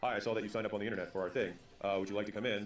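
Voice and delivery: flat, low-energy phone pitch; neutral flat tone. Shown as a demonstration. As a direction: read it like you don't care. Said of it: "If I'm, like, neutral".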